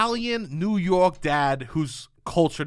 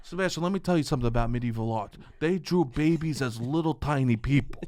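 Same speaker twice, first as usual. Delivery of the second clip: lecturing dad impression; 5 semitones lower, 5 dB quieter than usual. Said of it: "He goes".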